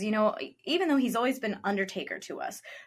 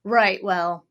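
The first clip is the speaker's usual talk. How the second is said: Undertaker's country phrases; 5 dB louder, much slower than usual. Retold or imitated. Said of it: "he was doing this".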